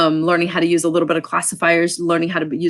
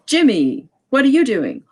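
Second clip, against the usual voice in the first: a hint of a grown-up calling down to a kid; lightly voiced parent asking Jimmy, a bit higher; teacher demoing an adult voice questioning a child; adult talking to a child; 5 semitones higher than usual. Shown as a demonstration. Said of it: "the adult would say".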